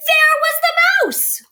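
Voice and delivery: breathless high whisper of discovery; whispered surprise. A narrator's reading. Reading to children, hushed surprised reveal. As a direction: hush the kids, then reveal.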